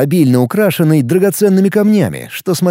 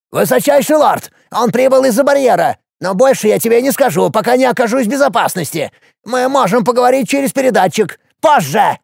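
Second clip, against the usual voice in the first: high, creaky, hurried offer; creaky dwarf bargaining; 8 semitones higher than usual. A narrator's reading. Dwarf Hopus offers Alex anything to be spared, high and creaky. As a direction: plead and bribe in a creaking voice.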